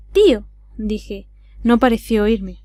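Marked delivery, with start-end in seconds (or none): 0.1-0.5 raised voice, calling to get attention. A narrator's reading. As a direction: call him, a little louder. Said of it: "repetí elevando la voz".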